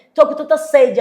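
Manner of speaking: loud, naturally booming request. Retold or imitated. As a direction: re-enact asking in your big voice. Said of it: "eu tenho uma voz alta".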